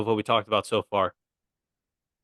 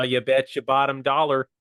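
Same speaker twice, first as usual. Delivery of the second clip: failed Canadian accent. Shown as a demonstration. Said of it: "That was not Canadian".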